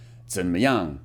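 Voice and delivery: 怎么样 said as a learner repeats it, low and careful; repeating Mandarin. Shown as a demonstration. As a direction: echo the phrase 怎么样 in Mandarin. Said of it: "the first expression is".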